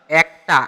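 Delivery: "একটা" opening on æ; open e pronunciation. Shown as a demonstration. Teacher picks the word with shifted vowel, "একটা" as ækta. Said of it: "এ উচ্চারিত হচ্ছে এটাতে".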